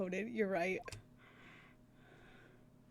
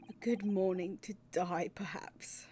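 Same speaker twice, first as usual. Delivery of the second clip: gloomy detective. Acted. Player voicing the gloomy detective's morning greeting, morose. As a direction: brood over every word.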